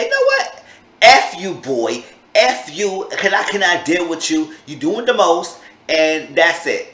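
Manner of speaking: high, loud angry kiss-off; fed-up telling off. Retold or imitated. Deanna cursing out the lying catfisher, loud and fed up. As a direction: let him have it and hang up.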